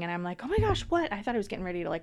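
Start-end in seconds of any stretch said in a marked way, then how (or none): 0.4-1.1 high-pitched startled reaction; retold alarm. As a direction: re-enact being startled by a child's scream. Retells her startled reaction to scream.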